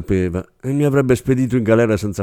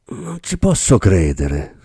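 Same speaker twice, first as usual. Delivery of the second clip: slow, strangled burst of anger; choked with rage; slower than usual. Acted. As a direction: force it out through choking fury. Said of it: "sbottò Bressan con la voce strozzata dalla rabbia". (voce strozzata dalla rabbia)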